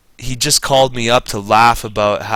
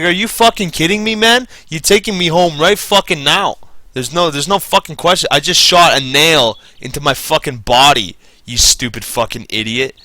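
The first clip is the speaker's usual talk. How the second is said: higher, heated cursing; retold anger; 4 semitones higher than usual. Worker telling the boss to drive him home, heated. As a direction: tear into him all over again. Retelling angry reply to boss.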